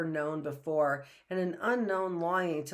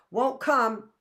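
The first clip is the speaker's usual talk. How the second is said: stubborn refusal; 7 semitones higher, 8 dB louder than usual. A narrator's reading. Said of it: "he said in reply".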